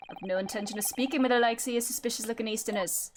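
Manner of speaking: lightly voiced Scottish governor; hint of a Shrek-like Scottish accent. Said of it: "I'll thank Shrek for my accent".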